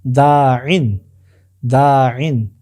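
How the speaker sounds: দাইন as long daa, then short -in; teacher's careful demo of দাইন as daa-in; contracted pronunciation. Shown as a demonstration. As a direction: model দাইন firmly, holding the first vowel. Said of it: "ঠিক সেইভাবে এখানে হচ্ছে".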